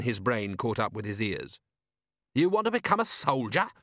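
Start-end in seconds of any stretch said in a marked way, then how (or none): 2.3-3.7 disbelieving question, pitched up; can't believe what he hears; incredulous. Acted. Vimes incredulous at butler.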